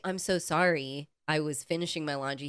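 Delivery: the sorry he never said; polite apology. Pretend. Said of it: "he didn't say".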